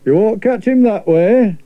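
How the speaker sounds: lightly voiced sensible lad; Edward, knowing boy. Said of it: "said Edward".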